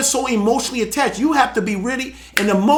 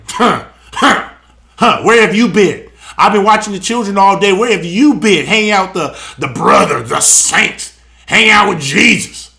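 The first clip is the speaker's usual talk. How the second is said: louder, lower mock of a scolding wife; mock nagging wife; 4 semitones lower, 4 dB louder than usual. Mocking a wicked wife who greets her husband with complaints.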